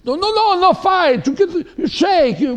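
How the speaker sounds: high-pitched, loud, insistent scolding; retold shouted order. Little dynamo reverend stopping a fight, shouting. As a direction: imitate a feisty pastor breaking it up. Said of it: "but he had this accent".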